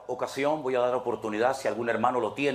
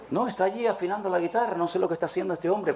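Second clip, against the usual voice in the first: quick, higher complaining member; mock grumbling churchgoer; 4 semitones higher, faster than usual. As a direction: rattle it off as a peeved churchgoer. (imitando a un feligrés quejoso, rápido y agudo)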